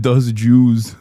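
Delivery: lightly voiced senator; mocking imitation. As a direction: parrot his slip in a put-on voice. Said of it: "He said".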